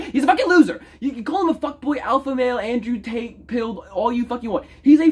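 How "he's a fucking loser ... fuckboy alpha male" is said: laughing. Real, not acted. Laughing insult of a rival.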